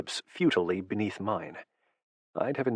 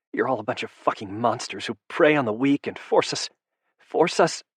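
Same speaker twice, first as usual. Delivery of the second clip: furious; 6 semitones higher than usual. A narrator's reading. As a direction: rage at him, building until the voice cracks upward. Furious woman accuses vampire lover.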